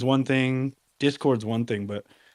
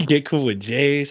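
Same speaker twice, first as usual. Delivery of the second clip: slow, amused, said through a laugh; 4 semitones higher, 4 dB louder than usual. Real, not acted. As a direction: chuckle the words out, slowly. Joking, laughing at the banter.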